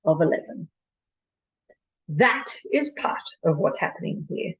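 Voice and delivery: performed dramatic monologue with measured pauses; Doctor de Koven. Acted. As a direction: argue the case to a listener, pausing between points. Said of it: "performing a monologue of Doctor de Koven".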